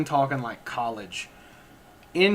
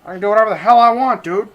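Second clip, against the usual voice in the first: louder, higher, fast gleeful boast; excited; 6 semitones higher, 8 dB louder, faster than usual. Acted. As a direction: rattle it off in delight. Acted carefree student quote.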